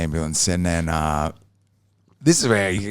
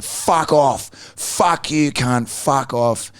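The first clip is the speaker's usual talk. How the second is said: higher-pitched, mock-angry telling-off; imitating angry swearing; retold abuse; 6 semitones higher, much slower than usual. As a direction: act out an aggro brush-off. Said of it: "I just wouldn't stop abusing him".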